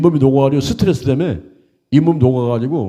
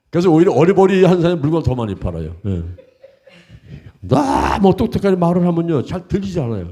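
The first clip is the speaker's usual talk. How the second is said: ordinary talk, nothing marked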